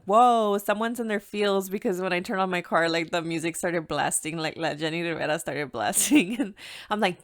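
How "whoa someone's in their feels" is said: teasing surprise. Retold or imitated. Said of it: "she's like".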